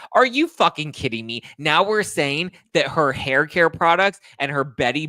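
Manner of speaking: high, loud incredulous rant; enraged disbelief. Real, not acted. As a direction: erupt at what was just read. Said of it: "further enrages me".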